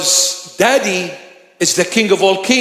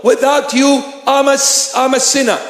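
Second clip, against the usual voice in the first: raised, earnest pleading prayer to the Lord; humble prayer; 4 semitones higher than usual. Retold or imitated. A bishop praying humbly before his Lord, earnest pleading. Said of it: "go back to him and say".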